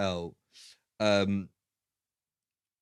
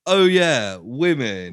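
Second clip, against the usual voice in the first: mock sexist quip; 4 dB louder, slower than usual. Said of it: "they're like".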